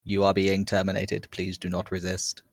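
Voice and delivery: flat even robotic monotone, no word stress; calm machine reading a death sentence. Acted. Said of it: "it's using the same robotic voice".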